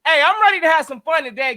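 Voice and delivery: ordinary delivery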